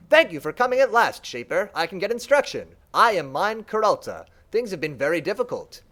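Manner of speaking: a lightly voiced, keen servant creature; a lightly voiced servant mind thanks the Shaper; eager servant mind. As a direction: greet the long-awaited master warmly.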